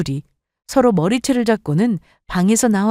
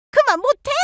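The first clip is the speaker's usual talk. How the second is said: much higher yell to stop; scolding shout. Acted. Mother-in-law yelling at fighting daughters, scolding. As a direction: snap at them to quit.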